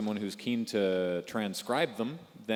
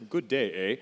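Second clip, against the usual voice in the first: mock Australian greeting, slightly louder; Australian accent; 5 dB louder than usual. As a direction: toss out a token Australian accent. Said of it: "in his best Australian accent".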